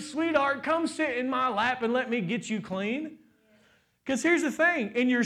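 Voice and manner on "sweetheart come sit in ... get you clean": tender fatherly voice. Pretend. God comforting the dirty child, tender. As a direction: soothe like a loving father. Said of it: "he's like".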